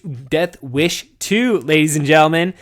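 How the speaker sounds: Death Wish two stretched slowly; host's take on the title he wants redone; drawn-out title. Shown as a demonstration. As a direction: announce Death Wish two like a movie trailer. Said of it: "can we get the retake?".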